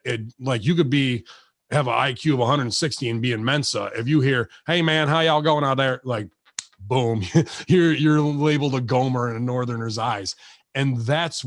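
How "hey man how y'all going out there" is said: put-on Southern twang, slightly raised; Southern accent. Showing what Northerners look down on, mock Southern accent. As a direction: do a folksy Southern greeting. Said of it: "we hear that Southern accent".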